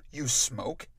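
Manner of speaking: whispered surprised question. Acted. Narrator whispering to her brother about smoking, hushed. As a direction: breathe it out, no voice.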